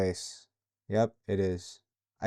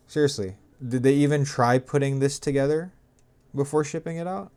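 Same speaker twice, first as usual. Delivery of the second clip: higher and louder, fed up; exasperated rant; 5 semitones higher, 5 dB louder than usual. Real, not acted. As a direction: vent at the makers, pitch up and louder. Fed up with faulty mod kit.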